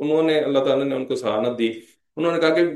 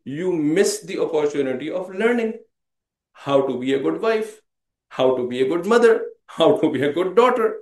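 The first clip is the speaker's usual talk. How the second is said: very slow, spelling out each phrase; slow and deliberate; much slower than usual. Acted. Preacher to his audience, slow and deliberate. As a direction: lay each phrase down slowly for the listeners. Preacher drives home the lesson.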